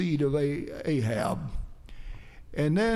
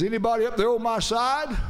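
higher-pitched call with a rising end; retold crying out; 5 semitones higher than usual. Jehu calls up to those at the window, retold crying out. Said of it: "he cries out and says".

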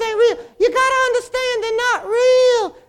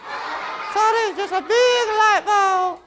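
laughing; slower than usual. Acted. Laughing at his own joke.

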